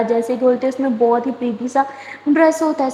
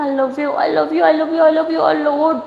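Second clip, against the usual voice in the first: tearful pleading; 3 semitones higher, much slower than usual. Acted. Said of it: "رو کیوں رہی ہو؟".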